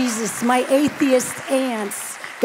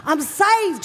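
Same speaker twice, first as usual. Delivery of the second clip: put-on Southern accent; 5 semitones higher than usual. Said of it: "I got a southern accent suddenly".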